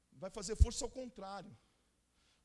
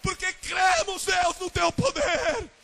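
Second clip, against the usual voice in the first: preaching at full force; 9 semitones higher, 14 dB louder than usual. Acted. Pastor rousing the church toward revival, roaring louder and louder. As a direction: build the congregation to revival fervor.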